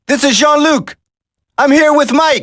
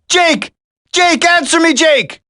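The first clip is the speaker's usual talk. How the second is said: higher, urgent shouts; urgent calling; 5 semitones higher than usual. Acted. Soldier shouting into the radio for his friend. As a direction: call into a dead radio.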